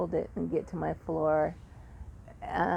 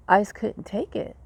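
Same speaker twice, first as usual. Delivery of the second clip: exasperated; 3 semitones higher, 5 dB louder than usual. Real, not acted. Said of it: "these panic attacks".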